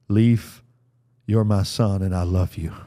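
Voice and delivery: gentle, hushed blessing; tender blessing. Retold or imitated. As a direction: speak it like a father at a bedside. Father speaking over sleeping son.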